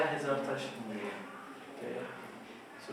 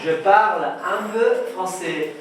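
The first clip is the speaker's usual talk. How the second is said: very slow, louder, every syllable spaced; slow drill model; 5 semitones higher, 12 dB louder, much slower than usual. Shown as a demonstration. Teacher modelling the sentence slowly for the class to repeat. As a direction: stretch it out for learners to copy. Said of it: "Répétez".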